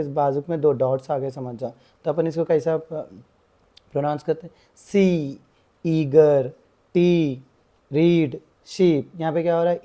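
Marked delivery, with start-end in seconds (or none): 4.8-9.1 सी, ईगर, टी, रीड, शीप with the ee drawn out long and slow; long ee sound. Shown as a demonstration. Teacher showing students the long ee sound, drawn out. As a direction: stretch the ee in each word slowly. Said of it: "ई की आवाज़ जो है सो खींच के बोल रहे".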